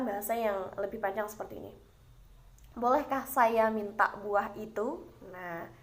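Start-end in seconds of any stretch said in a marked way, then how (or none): 2.7-5.1 gentle, slow, courteous ask; polite request. Shown as a demonstration. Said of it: "terdengar jauh lebih lembut atau lebih santun".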